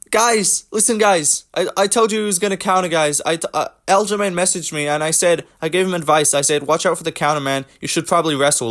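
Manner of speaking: high, eager, whiny guy-talking-to-fans voice; mocking Henry Cejudo. Mocking Cejudo for viewers, high whiny impression. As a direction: play a self-important fighter pleading with his fans. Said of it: "We've got Henry Cejudo".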